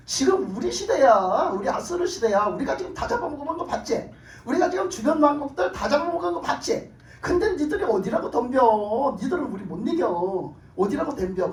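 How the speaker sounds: boastful taunting of a weaker enemy; mocking taunt. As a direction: jeer like a cocky invading army. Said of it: "희롱을 하는 거예요".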